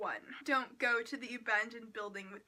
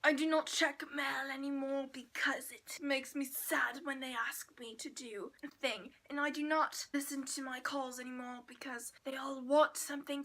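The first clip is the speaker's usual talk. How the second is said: mopey artist voice; 4 dB louder than usual. Retold or imitated.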